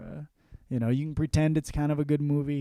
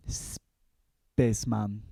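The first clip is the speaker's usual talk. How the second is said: drawn-out title; 4 semitones lower, much slower than usual. Acted.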